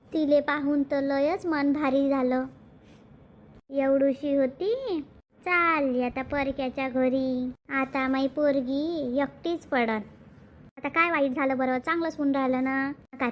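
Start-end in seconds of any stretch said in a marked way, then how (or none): 0.1-10.0 slow, drawn-out, low-pitched grieving; tearful lament. Acted. Mother lamenting her little girl going to another house, tearful. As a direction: let each phrase drag under the tears. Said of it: "आई काऊन रडून राहिली गड्या?".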